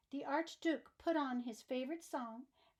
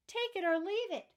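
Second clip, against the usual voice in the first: higher, louder ultimatum; archduke's shout; 6 semitones higher, 5 dB louder than usual. Acted. Archduke shouting at Annabel, higher and louder. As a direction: slam the offer down. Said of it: "shouted the archduke".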